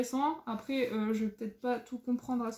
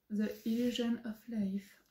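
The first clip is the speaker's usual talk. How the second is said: 1 English title in French accent; 4 dB quieter than usual. Real, not acted. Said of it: "avec mon bel accent".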